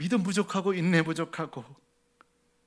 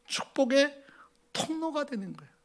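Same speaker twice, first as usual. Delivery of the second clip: high tender whisper; 9 semitones higher, 4 dB quieter than usual. Acted. God's tender promise.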